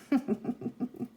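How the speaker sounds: real, quiet giggling laugh; chuckle. Real, not acted. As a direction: chuckle quietly at your own joke. Laughs at own joke.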